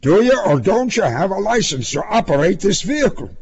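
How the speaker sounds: brisk policeman's interrogation. A narrator's reading. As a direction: rattle off an official question. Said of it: "Then more officially".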